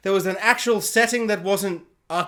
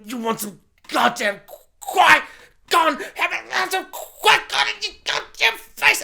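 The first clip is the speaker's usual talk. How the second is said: rising into a higher hammed-up yell; mock shove; 7 semitones higher than usual. Disney forcing Qui-Gon on fans, mock yelling. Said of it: "And they're like".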